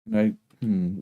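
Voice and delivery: normal talking voice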